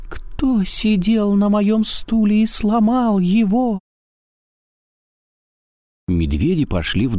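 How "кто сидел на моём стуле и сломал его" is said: very high slow squeak; rubbery high squeaky toy. A narrator's reading. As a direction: squeak like a tiny bear cub. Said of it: "пропищал".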